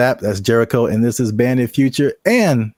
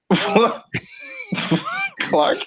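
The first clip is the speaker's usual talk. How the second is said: high, incredulous "What?"; surprised; 3 dB quieter than usual. Real, not acted. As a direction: disbelief at the name. Reacts to robot quote.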